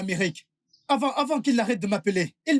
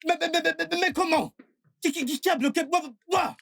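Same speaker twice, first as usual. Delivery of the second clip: higher-pitched, repeated stutter of disbelief; stunned stammer; 5 semitones higher than usual. Acted. Husband learns the numbers were blocked, stunned stammer. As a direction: stammer the first word over and over, pitched up.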